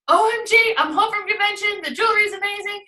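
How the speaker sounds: high, bright gush of excitement; excited OMG text. Shown as a demonstration. Consultant texting hostess after convention, excited gush. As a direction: read it like you can't contain yourself. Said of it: "that's an excited".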